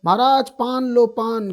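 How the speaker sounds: a lightly voiced paan seller calling out; imitating the paan seller. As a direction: hawk the paan to the king, drawn out. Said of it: "पान वाला बोलता ना".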